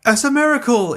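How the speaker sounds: high-pitched crowd cry of wonder; mock amazement. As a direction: imitate a gullible follower's awe.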